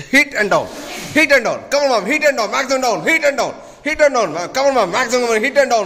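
high, pushing calls to hit harder; energetic coaching shout. Real, not acted. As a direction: drive the class on with energy. Coach urging a punching drill.

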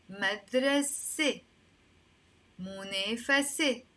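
مدرسة، منافسة sounded out as "madrase, munefase"; teacher modelling مدرسة، منافسة with an "eh" ending; final "se" sound. Shown as a demonstration. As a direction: carefully end مدرسة and منافسة in "seh". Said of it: "I'm gonna put a A for the letter sin".

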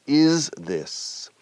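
"Is" with a z, "this" with a soft s; buzzed versus soft S. Shown as a demonstration. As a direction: raise "Is" and buzz its end, hiss the end of "this". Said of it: "una S zumbido".

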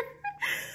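a high, broken laugh catching on a sob; tearful laugh. Real, not acted. Holding back tears before her viewers, tearful laugh. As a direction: laugh that breaks into crying. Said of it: "I don't wanna cry".

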